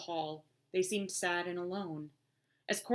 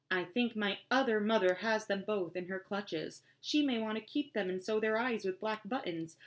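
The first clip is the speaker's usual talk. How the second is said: trying to sound grown-up; 3 semitones higher than usual. Acted. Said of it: "tried extra hard to sound like an adult".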